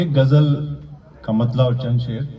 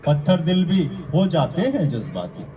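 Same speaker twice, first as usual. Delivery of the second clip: measured declamation with pauses between phrases; mushaira-style verse recitation; poetry recital; 3 semitones higher than usual. Acted. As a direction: recite the couplet to an audience, landing each phrase. Recites ghazal couplets.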